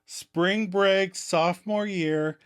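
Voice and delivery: stalling, pieced-out reminiscence; softening the blow. Retold or imitated. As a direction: ease into a confession. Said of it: "Ross tries to soften the blow".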